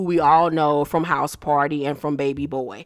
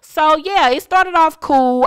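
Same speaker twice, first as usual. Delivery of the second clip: upbeat recap; 9 semitones higher, 7 dB louder, slower than usual. Real, not acted. Wrap-up review.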